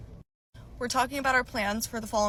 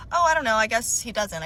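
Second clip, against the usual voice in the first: imitating a quick, evasive answer; quick reply; 5 dB louder than usual. Ex hurriedly answers about roommate's girlfriend, quick reply. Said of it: "And he very quickly".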